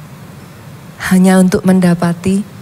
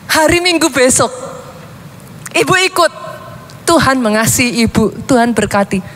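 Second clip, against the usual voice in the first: put-on higher, heartfelt boy's plea, breaking on ayo; boy telling the old woman Jesus loves her, higher and earnest; earnest child inviting; 6 semitones higher than usual. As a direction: beg her gently to come to church.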